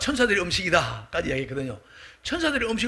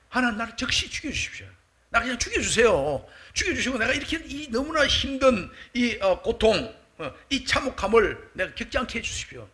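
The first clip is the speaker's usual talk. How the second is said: acted desperate prayer, raised pitch; earnest plea; 5 semitones higher than usual. Moses begging God to end his suffering, acted earnest plea. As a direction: plead as someone overwhelmed by the burden. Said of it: "모세가 이렇게 간절히 기도합니다".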